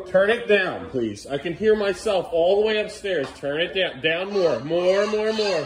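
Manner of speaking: loud, insistent commands; firm call. Real, not acted. Parent telling Beckham to turn it down, firm and loud. Telling kid to lower volume.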